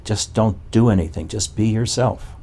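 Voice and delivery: mocking the Neo-Advaitins. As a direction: parrot their easy answer mockingly. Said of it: "the Neo-Advaitins say".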